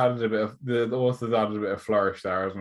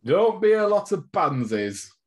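put-on gruff old manager; 8 semitones higher, 4 dB louder, slower than usual. Mock old-time manager rant.

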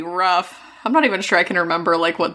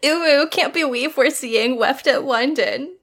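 teasing fangirl; 4 semitones higher, slower than usual. Pretend.

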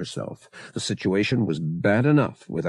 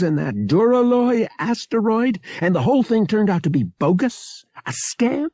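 higher-pitched, insistent argument; accusing brother, worked up; 9 semitones higher than usual. A narrator's reading. Pavak exposing Solo's aliases to Bria, worked up. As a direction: build the accusation, voice climbing high.

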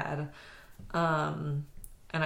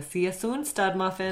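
put-on light Minnesota accent. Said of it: "No, there you go".

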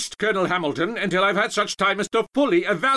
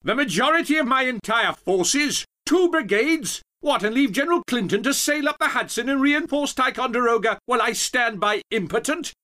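high, loud indignant tirade; storming, high-pitched bluster at full volume; indignant pompous general; 9 dB louder than usual. Acted. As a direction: rant like an outraged, pompous old general. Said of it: "Gates stormed back and forth".

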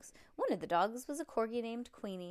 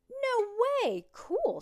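high, loud burst of amazement; big wowed reaction; amazed group cheer; 13 semitones higher, 7 dB louder, much slower than usual. A narrator's reading. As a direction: exclaim it like a whole group of thrilled kids. Everybody amazed by purse contents.

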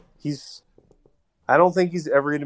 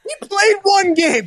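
shouting match. Real, not acted. Heated argument over Trey Lance.

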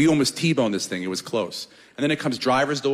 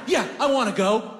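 smug mock swagger; 8 semitones higher than usual. Smug exit line.

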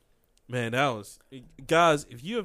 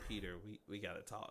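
hushed serious; 10 semitones lower, 18 dB quieter than usual. Retold or imitated. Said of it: "They're like".

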